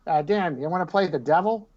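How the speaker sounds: high, growly mock rock-star voice; imagined rock singer. Mimicking what people think a rock singer sounds like, a hammed-up high rasp. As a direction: ham up a spooky rock-star caller. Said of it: "people think he talks like this".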